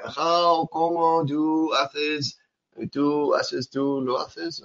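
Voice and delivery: halting learner translating aloud; mock confused learner. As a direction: fumble between English and Spanish. Teacher mimics confused Spanish learner.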